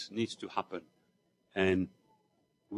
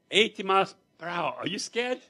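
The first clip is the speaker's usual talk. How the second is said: louder, higher taunt; teasing driver; 8 semitones higher, 7 dB louder than usual. Retold or imitated. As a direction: push him with the speed. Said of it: "He goes".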